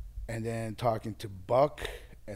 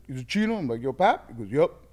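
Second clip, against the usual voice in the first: high, loud back-and-forth on the phone; excited phone call; 4 semitones higher, 8 dB louder than usual. Retold or imitated. Chino and Pap greet on the phone, high and loud. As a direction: play the surprised phone greeting.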